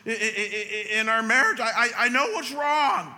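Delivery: high, halting, broken voice; wife sobbing on the phone, imitated high and halting; retold sobbing. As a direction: stammer through imitated sobs. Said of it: "She's through sobs saying".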